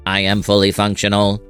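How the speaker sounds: put-on robot girl speaking on one level note; imitation of an evenly pitched TV robot; monotone robot voice. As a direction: say it like a monotone android. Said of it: "in her monotone robot voice".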